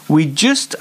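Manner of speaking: whispered start of a quote; hushed quoting voice. Retold or imitated. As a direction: breathe the words.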